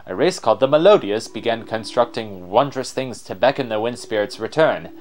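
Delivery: lightly voiced explorer, explaining lore; mildly theatrical scholar's account; extra explorer voice. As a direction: recount it as a learned adventurer. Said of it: "give him an extra voice".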